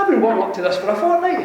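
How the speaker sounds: fast, laughing brag; laughing boast. Retold or imitated.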